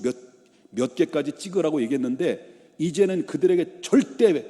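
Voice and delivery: stern, forceful royal decree; thundering command, acted. Pharaoh orders his overseers about the bricks, angry command. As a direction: hammer out the order like an angry boss. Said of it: "불호령이 떨어지죠".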